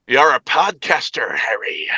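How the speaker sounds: slow attempt at an Irish accent; a touch of Irish accent, drawn out; slow, lightly Irish-accented impression; Hagrid. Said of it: "spoke with an Irish accent".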